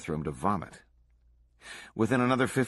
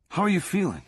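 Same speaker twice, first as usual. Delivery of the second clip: high-pitched, solicitous question; concerned checking-in; 10 semitones higher, 4 dB louder than usual. A narrator's reading. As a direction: ask with seemingly genuine concern. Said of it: "seemingly genuinely concerned".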